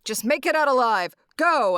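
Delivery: put-on rally the boys before a run; moderately loud mock battle command; acted commander's orders. Garp giving battle orders to crew.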